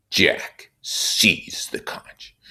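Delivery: unvoiced whisper, slow; hushed. Narrator slipping into a whisper as Jack takes the conch. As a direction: breathe it out under the breath. Reading aside in hush.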